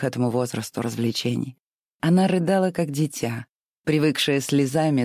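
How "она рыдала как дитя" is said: plain reading voice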